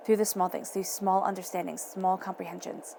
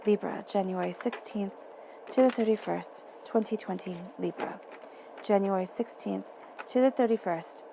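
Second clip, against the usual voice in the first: quiet incantation; 4 dB quieter than usual. Acted. Reader setting intention before shuffling, murmured chant. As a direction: softly repeat the dates like a spell. Repeats tarot reading dates like incantation.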